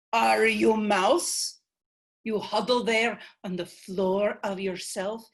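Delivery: lightly voiced, stern old matriarch; an ancient grandmother chiding her descendant; ancestral spirit. The ancestor scolding Selena for her self-pity, stern.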